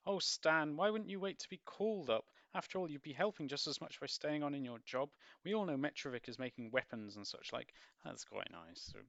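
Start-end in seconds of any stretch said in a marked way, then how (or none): 0.1-7.7 pleading mother. Acted. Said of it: "Missus Chivers".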